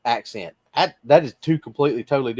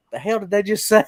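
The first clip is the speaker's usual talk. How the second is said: imitated bafflement; 5 semitones higher than usual. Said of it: "sometimes he's like".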